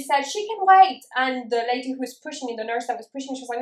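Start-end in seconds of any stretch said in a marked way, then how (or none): 0.2-1.0 high, slow, snooty drawl of a cold receptionist; dismissive mock receptionist. Imitating the dismissive receptionist who says she can wait. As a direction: mimic her brushing you off.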